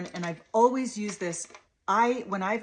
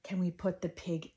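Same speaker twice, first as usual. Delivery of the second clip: put-on wondering sing-song talk to a toddler; playful, lilting invitation. Shown as a demonstration. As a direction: gasp and lilt to catch a child's attention. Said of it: "and I'm sing-songing".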